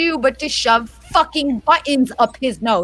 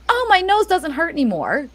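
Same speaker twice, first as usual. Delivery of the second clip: put-on higher-pitched little-boy voice; relieved kid; 5 semitones higher than usual. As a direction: imitate a kid blithely announcing relief. Mum voices relieved son.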